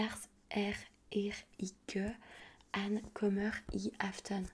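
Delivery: halting Danish with a French accent; bad Danish accent. Shown as a demonstration. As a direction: sound out foreign Danish word by word. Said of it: "j'ai un accent pourri".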